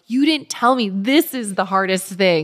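playful exasperation, building up; mock exasperated rant. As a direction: vent half-joking at moms who never warned her. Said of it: "I'm like".

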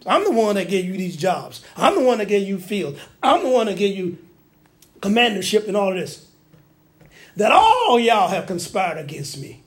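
indignant, hammering each grievance; acted rant, leaning hard on key words; berating. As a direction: berate them as an aggrieved king. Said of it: "So he's berating his people".

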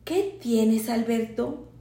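soft, hushed question close to his ear; whispered in the ear. A narrator's reading. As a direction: say it gently into a friend's ear. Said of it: "le dije al oído". (susurrado al oído)

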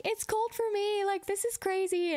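high, exaggerated put-on whine about the cold; mock complaining about the cold. Missionary to Russian bus riders, high mock-shivery complaint. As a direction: playfully overdo how freezing she feels. Telling locals she finds it cold.

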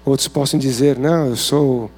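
usual speaking voice

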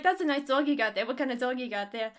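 imitated New Yorker accent. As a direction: quote him in a New York accent. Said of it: "the guy was from New York".

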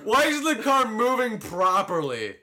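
high, laughing shrieks of disbelief. Real, not acted. His race car glitches and he shrieks with laughter.

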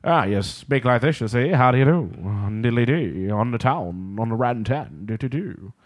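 mock Transatlantic accent. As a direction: start a Transatlantic imitation and let it peter out. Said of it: "It sort of faded away the more I talked".

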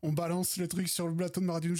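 ordinary talk

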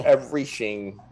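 mock Welsh accent. Shown as a demonstration. Continuing a Welsh impression for friends, mock Welsh. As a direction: give it a comic Welsh lilt. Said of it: "the Welsh accent is very".

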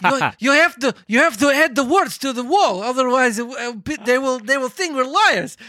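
mildly slurring tipsy pig; slurred drunk speech. Retold or imitated. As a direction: slur it like you've had too many. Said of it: "he's slurring his speech".

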